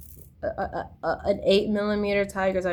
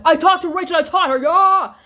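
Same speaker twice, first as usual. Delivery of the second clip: higher, louder mocking cheer; mock boast; 9 semitones higher, 8 dB louder than usual. Mocking friends who brag about knowing Rachel, loud cheer. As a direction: ham up their bragging with a triumphant yell.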